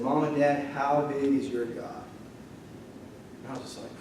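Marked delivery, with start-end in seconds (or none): 0.0-2.0 retelling a son facing his parents, quiet and earnest; earnest question. Retold or imitated. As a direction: ask it gently and let it land. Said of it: "He looked his mom and dad in the eyes".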